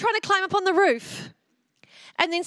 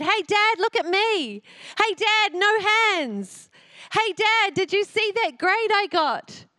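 put-on higher, eager kid calling out; child calling dad; 4 semitones higher than usual. Young preacher calling to her dad for approval, eager. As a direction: call for dad's attention like a young child. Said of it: "I remember calling out to my dad".

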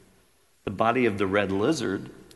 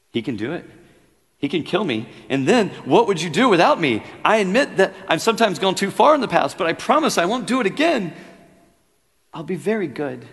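rising much higher and louder, wheedling; chattering lizard; 10 semitones higher, 10 dB louder than usual. A narrator's reading. Lizard pleads with the ghost to be spared, wheedling. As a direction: coax and plead like a cornered pet. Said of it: "the lizard began chattering".

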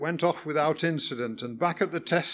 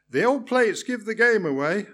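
higher and louder, breezy; cheerful; 6 semitones higher, 5 dB louder than usual. A narrator's reading. Driver cheerfully explaining old plates to examiner. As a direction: brush it off brightly. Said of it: "I replied cheerfully".

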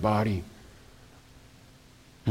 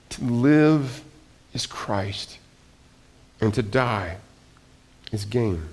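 softer, falling to a whisper on "is Christ"; slow and softer, almost breathed; hushed reading; 2 semitones lower, 4 dB quieter, slower than usual. Shown as a demonstration. Preacher reads Paul's verse to the congregation in a hush.

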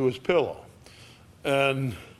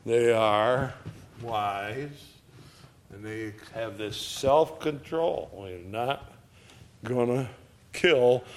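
God speaking; 3 semitones lower, 5 dB quieter than usual. Retold or imitated. Preacher voices God speaking.

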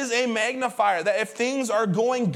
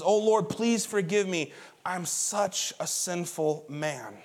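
slow, subdued confession, lower at the end; penitent plea; 3 semitones lower, 3 dB quieter, slower than usual. Retold or imitated. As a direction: plead for forgiveness with understated remorse. Peter kneels repenting before Jesus.

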